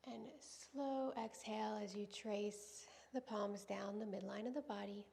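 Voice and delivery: calm, measured yoga-teacher voice with long pauses; guided yoga centering. Real, not acted. Yoga teacher settling students into breath and intention, calm guiding voice. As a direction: guide them gently through each breath, unhurried.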